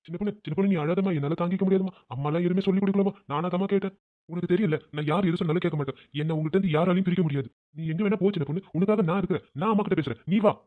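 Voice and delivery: softened, pleading comfort; tender reassurance. Acted. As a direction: reassure your weeping wife. Husband comforts and pleads with wife. (கனிவாக சமாதானம்)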